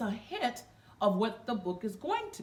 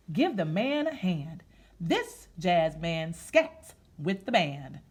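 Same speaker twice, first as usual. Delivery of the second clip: put-on reading to children; slower than usual. Reads the picture book aloud.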